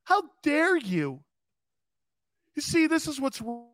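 lightly mocked how dare you; mock offended. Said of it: "I'm acting like that".

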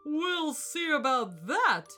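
slow, loud, emphatic elephant; pompous challenge. A narrator's reading. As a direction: relish the challenge, leaning on each word.

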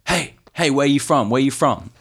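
street hawker. Retold or imitated. Street hawker calling out to tourist.

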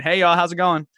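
put-on Southern accent. Showing up tatted and bearded, Southern-accented greeting. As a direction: greet the room in a Southern twang. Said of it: "showing up and saying".

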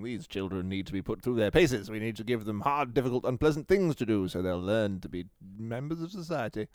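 lightly voiced stern traditionalist; stern old generation. Mocking old educators, a hint of a stern lecturer. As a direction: lecture like a strict old schoolmaster. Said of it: "of people saying".

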